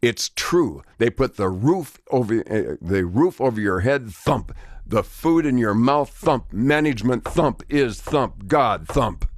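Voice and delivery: mock shouted lecture. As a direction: pound out every word like a fist on the desk. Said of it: "he thumped his finger on the desk".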